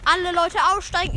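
high sing-song call; bus driver's announcement. Acted. Bus driver telling everyone to get off, calling out. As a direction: call it out to the passengers.

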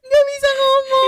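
high, loud laughing wail; laughing despair. Real, not acted. Host admits she can't speak Javanese, wailing through laughter. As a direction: laugh and whine that you can't do it.

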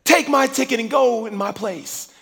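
high and loud, pushing the ticket on him; insistent. Retold or imitated. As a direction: urge him eagerly. Wife insisting he go.

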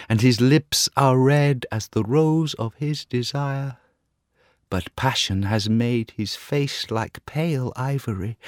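a dreamy little songbird; nightingale voice. Acted. Nightingale describing the student.

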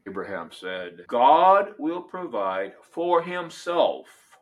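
measured, solemn reading of Scripture; dramatic Bible reading from the pulpit. Acted. Reads Genesis 22 aloud.

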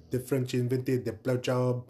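bad slow French accent; a weak French accent put on slowly. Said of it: "That's a bad French accent".

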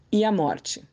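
ordinary delivery

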